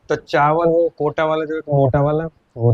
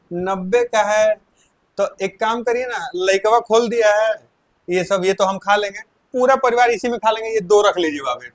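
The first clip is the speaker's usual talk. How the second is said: pleading passenger; 4 semitones higher than usual. Retold or imitated.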